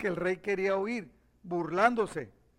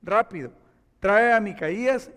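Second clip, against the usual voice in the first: royal order; 2 semitones higher, 6 dB louder than usual. Acted. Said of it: "llamó a uno de sus funcionarios y le dijo".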